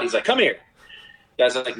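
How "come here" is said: coach yelling. Retold or imitated. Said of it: "He screams at the guy".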